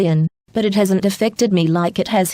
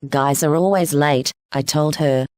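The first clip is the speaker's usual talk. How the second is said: low-pitched, easygoing friend; Venusa, laid-back mate; 6 semitones lower than usual. Acted. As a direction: greet a friend in a lowered voice. Another character, Venusa, speaks.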